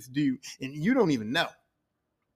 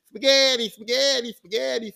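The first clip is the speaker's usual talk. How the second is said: loud first cry, then easing off; mock cry of repeated disaster; exclaimed refrain; 5 dB louder than usual. Everything fails each time he tries, exclaimed refrain.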